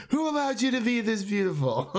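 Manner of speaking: high-pitched mock-adoring outburst with laughter; gushing hype. Fan quoting a favourite film, gushing hype. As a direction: gush it high, playfully over the top.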